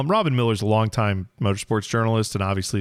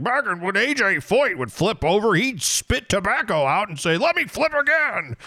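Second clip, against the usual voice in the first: high, strained mock old-timer rant; hammed-up indignant old man reminiscing; angry old man; 8 semitones higher than usual. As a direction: crank the voice up like a crotchety old fan. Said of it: "so angry old man".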